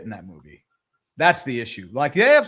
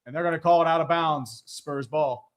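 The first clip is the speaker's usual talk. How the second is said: running commentary climbing into a higher pitch; live play-by-play; 3 semitones higher than usual. Real, not acted. Calling a missed jumper and scramble, live play-by-play. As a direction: follow the ball and lift into the scramble.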